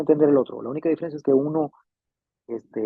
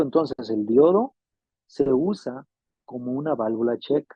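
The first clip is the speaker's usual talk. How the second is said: slow repetition; 2 semitones lower than usual. Shown as a demonstration.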